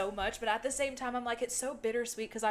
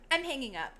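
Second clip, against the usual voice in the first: mock-dramatic quote, slightly higher; dramatic announcement; 4 semitones higher, faster than usual. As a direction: lightly imitate someone announcing a hang-up. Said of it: "they try to do it dramatically".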